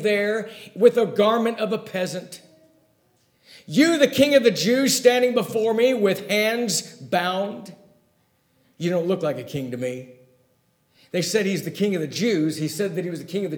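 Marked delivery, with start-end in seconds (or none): 3.6-10.1 scornful Pilate. Retold or imitated. Pilate sneers at Jesus standing with hands bound. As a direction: sneer at the prisoner's claim. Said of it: "it's ludicrous in his mind".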